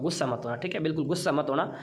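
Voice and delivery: affectionate reassurance. Real, not acted. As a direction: gently soothe after a playful tease. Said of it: "प्यार से बोलता हूँ".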